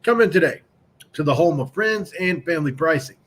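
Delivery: upbeat, brisk car dealer ad read. Acted. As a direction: sell it like a radio spot. Reads sponsor ad.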